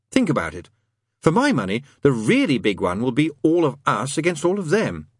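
lightly voiced knowing demon; Crowley. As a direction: make the case, lifting the pitch.

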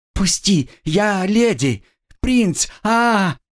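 high, breaking cries; whipped girl, high desperate scream. Acted. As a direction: scream as the whip lands. Girl screams under whip.

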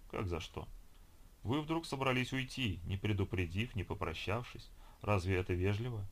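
gurgling fish man croak. Acted. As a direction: softly reproach her like a sea monster. Ho speaks to Olga.

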